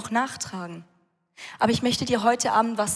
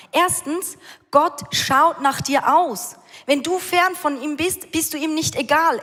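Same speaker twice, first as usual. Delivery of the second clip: raised, driving sermon voice; fervent preaching; 3 semitones higher than usual. Acted. Preacher telling the church how the father runs, fervent. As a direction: preach it out with rising fire.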